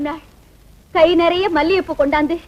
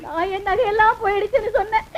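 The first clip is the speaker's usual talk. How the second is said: tearful complaint; 5 dB quieter than usual. Acted. Wife cries over lost jewels.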